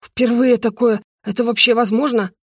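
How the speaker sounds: ordinary delivery, nothing marked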